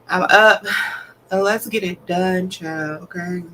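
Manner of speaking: yawning while talking. Real, not acted. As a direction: push words out through a yawn. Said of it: "Don't mind my yawning".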